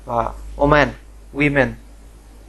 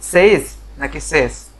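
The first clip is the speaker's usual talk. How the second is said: slow quiz; 4 dB louder, slower than usual. Shown as a demonstration. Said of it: "আপনারা কেউ কি জানেন".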